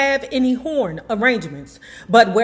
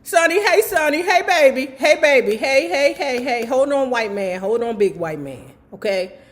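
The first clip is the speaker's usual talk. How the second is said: put-on higher, soothing old lady voice; little old lady; 4 semitones higher than usual. Old lady calming the armed cop in a sweet high voice. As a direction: coax the angry man like a grandma calming a child. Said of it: "a little old lady stepped in".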